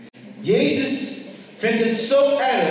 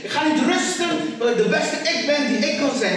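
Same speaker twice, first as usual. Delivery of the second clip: higher, rousing household motto; motivational; 5 semitones higher than usual. Shown as a demonstration. Preacher sharing his home motto, motivating the room. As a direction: say it to spur them on. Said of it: "Een beetje motiveren".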